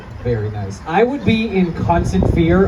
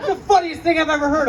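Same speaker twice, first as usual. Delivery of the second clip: gushing relative; 10 semitones higher than usual. Retold or imitated. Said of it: "they're like".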